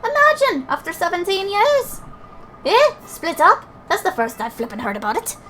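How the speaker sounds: high, loud fairy banter in put-on accent; incredulous fairies. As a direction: protest like excitable little fairies. Excitable fairies in game dialogue.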